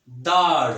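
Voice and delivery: दाढ़ loud with a heavy breathy ढ़; heavy sound. Shown as a demonstration. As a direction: punch दाढ़ out heavily. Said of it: "original जो ख़ास आवाज़ है". (भारी आवाज़ में दाढ़)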